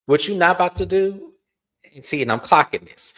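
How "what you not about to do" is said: warning Georgia. Retold or imitated. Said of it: "I said".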